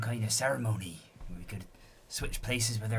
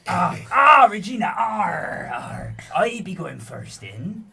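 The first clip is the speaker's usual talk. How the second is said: panicked pleading; 5 semitones higher, 9 dB louder than usual. Acted. Frightened pirate begs Regina.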